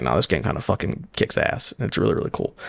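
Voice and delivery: quiet awed confession; hushed aside. Retold or imitated. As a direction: voice dropped to a near whisper. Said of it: "And I'm like".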